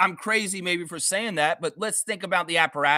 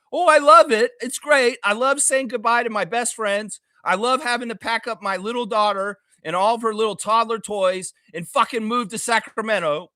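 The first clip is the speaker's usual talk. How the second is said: mock cheerful, louder and higher; sarcastic glee; 3 semitones higher, 4 dB louder than usual. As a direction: gush over it with biting sarcasm. Mocking gleeful trade talk.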